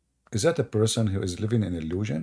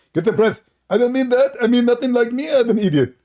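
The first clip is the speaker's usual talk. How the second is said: mock rival voice; 12 semitones higher, 5 dB louder than usual. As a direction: play the rival confessing, hammed up.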